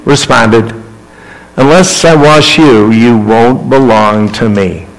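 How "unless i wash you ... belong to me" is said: calm. Acted. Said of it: "Jesus calmly, responded".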